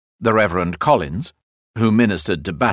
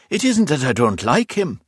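higher-pitched, protesting roadworker; roadworker Broderick; 6 semitones higher than usual. A narrator's reading. Roadworker answers his mate about the gravedigger, in protest. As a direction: play Broderick explaining himself to his mate.

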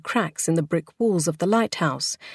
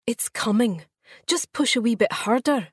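higher, coaxing encouragement; encouraging; 6 semitones higher than usual. A narrator's reading. Keeper's wife coaxing the mother to push, encouraging. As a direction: gently urge her on. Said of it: "she encouraged".

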